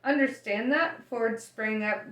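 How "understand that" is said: repeated shout. Acted. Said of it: "shouted Arthur".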